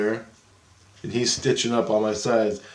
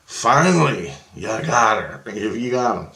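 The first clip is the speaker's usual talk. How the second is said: imitated triumphant cry; 5 dB louder, slower than usual. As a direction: call it out as the rescuer, at long last. Acting out a rescuer's cry.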